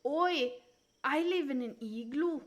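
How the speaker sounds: mock Canadian accent. Streamer showing off igloo life, mock Canadian accent. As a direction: play up a cartoon Canadian lilt. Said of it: "I know how to sound Canadian".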